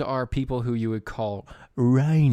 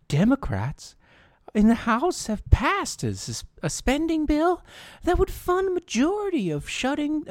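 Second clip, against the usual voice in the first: mocking news read. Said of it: "if you hear something in the words, that's because it's from Axios".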